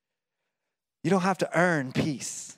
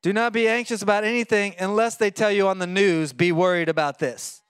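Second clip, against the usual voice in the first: mock misquote; 3 semitones higher than usual. Shown as a demonstration.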